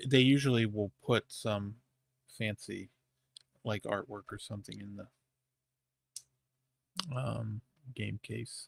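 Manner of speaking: very quiet, hushed half-whisper. Explaining what comes in a game case to another speaker, half-whispering. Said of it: "You're, like, whispering for the people".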